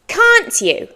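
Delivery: "Can't you?" high and falling, words kept distinct; careful full form. Shown as a demonstration. Teacher repeats the phrase for learners, careful form. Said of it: "A native person might say".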